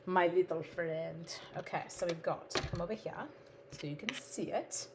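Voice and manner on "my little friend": "My little friend" said lower and slow, leaning on "my"; a low, drawn-out "my little friend" like a movie tough guy; playful slow growl. Shown as a demonstration. Crafter greeting her punch in a low, slow mock-tough voice.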